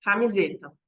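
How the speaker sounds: one smooth word in a single go; fluent whole-word reading; whole word at once. Shown as a demonstration. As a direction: read it in one stroke, no breaks. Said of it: "A leitura de golpe é quando eu leio a palavra de uma só vez".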